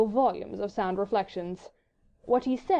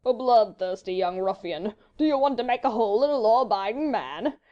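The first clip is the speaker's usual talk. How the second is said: slow, louder, amused fop; leisurely drawl; 5 dB louder than usual. A narrator's reading. Sir Percy refusing a duel, leisurely drawl. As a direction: take your time, drawling with unruffled humour. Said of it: "he said leisurely".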